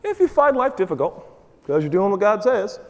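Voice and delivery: unbothered, phrase-by-phrase counsel; easygoing, measured advice; matter-of-fact tone. Acted. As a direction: read it out as if nothing is wrong. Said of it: "Listen to the tone".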